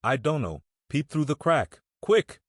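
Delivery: put-on a scared boy pushing his friend to look, quick; terrified whisper-turned-cry of a boy hearing a howl; frightened urgent plea. A narrator's reading. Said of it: "in an agony of fright".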